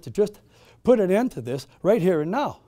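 the soldier promising to end the meeting, loud and menacing; threatening soldier. Acted. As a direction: declare it with cold authority. Soldier threatens the gathered believers.

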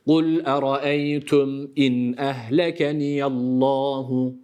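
Kul eraeytüm in ehlekeniyallahu slowly with clear nun; slow careful reading; correct recitation. Shown as a demonstration. Tutor models the verse for the student. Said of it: "şeklinde okuyalım".

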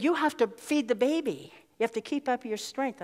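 hushed, caring voice of a refugee woman; gently insisting she eat. Retold or imitated. Retold woman urging.

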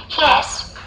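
put-on high little girl's answer. A narrator's reading. Little girl answering the register, high child voice.

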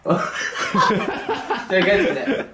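words pushed out through laughter; can't keep a straight face; laughing while talking. Real, not acted. Laughing mid-scolding. (笑いをこらえきれずに)

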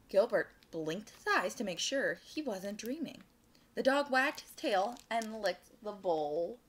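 animated storytime narration; picture-book read-aloud; children's story reading. A narrator's reading. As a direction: read it to little listeners with lilting emphasis.

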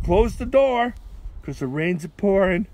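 high, loud urgent call; crying out. Acted. Noah ordering the ark shut in pouring rain, crying out. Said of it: "And Noah cried out".

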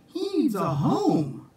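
put-on high little girl voice; childlike voice. Baby Sue pleading for the kitten, high and sweet. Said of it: "said Baby Sue".

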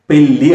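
పెళ్ళి with a clear retroflex lateral; correct pronunciation. Shown as a demonstration. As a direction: say పెళ్ళి as the proper ళ్ళ. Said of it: "పెళ్ళి అది". (పెళ్ళి సరైన ఉచ్చారణ)

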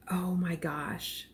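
breathless slow whisper; awed whisper. Real, not acted. Crafter hushed by the pretty yarn, whispering. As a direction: whisper it in quiet awe.

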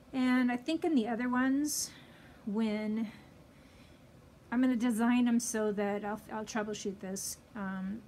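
muffled by cloth mask; speaking behind fabric; through a face mask. Real, not acted. Seen 4: Pink fabric mask covers mouth and nose in every frame.

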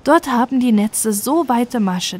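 plain reading voice

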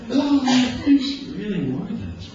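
high, giggling thought; laughing aside. Pretend. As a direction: laugh through the words.

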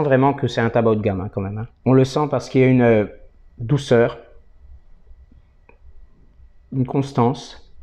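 talking around pipe stem; pipe in mouth. Real, not acted. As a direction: lips clamped on pipe. Seen 3: Pipe stem held between lips; removed around 8.9-11.5, back by 12.3.

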